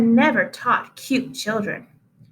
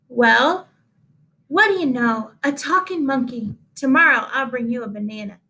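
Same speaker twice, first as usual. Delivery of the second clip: delighted teacher. Acted. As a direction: marvel at the talking monkey. Teacher amazed monkey talks.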